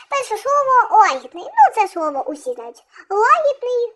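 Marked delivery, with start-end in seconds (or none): 1.0-1.4 лагідний with the first syllable ЛА stressed. Shown as a demonstration. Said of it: "наголос на А". 3.1-3.9 Лагідний with the first syllable ЛА raised; stress on the А. Shown as a demonstration. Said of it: "наголос на А".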